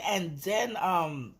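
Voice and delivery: ordinary talk, nothing marked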